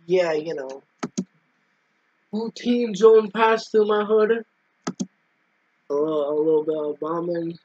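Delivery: talking around candy; words round a mouthful of candy; mouth full. Acted. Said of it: "Do you have some Jolly Ranchers in your mouth".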